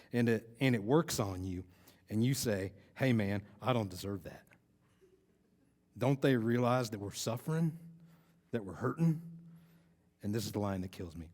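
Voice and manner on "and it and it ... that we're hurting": imitating a Texan's Southern speech; attempted Southern accent. Speaker quoting a suffering Texas contestant, in an imitated Southern accent. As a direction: put on a light Southern accent. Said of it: "I might try talking like that".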